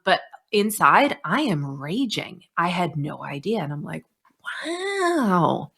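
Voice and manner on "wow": a much higher, lit-up wow; delighted wow. Retold or imitated. Therapist praising client breakthrough, delighted wow. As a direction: show real delight.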